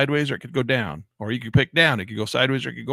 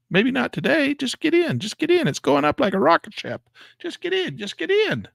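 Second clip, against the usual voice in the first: far higher, chanting it over and over; frantic urging; 3 dB louder than usual. Real, not acted. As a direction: beg yourself to jump in. Chanting himself into the trade.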